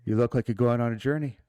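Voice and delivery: a weak attempt at a Scottish accent; lightly Scottish, badly faked; horrible Scottish accent. Game master voicing the barmaid in a bad Scottish accent. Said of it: "It's my horrible Scottish accent".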